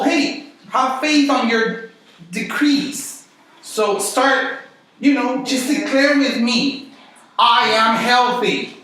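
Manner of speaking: lightly voiced charismatic preacher; mock faith declaration. Mock faith-healer telling Paul to declare.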